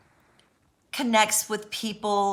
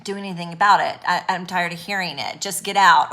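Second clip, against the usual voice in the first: voicing fed-up people, louder on get out; a mock exasperated brush-off that swells loud at the end; impatient dismissive quote; 5 dB louder than usual. Imitating people tired of hearing it, impatient and dismissive.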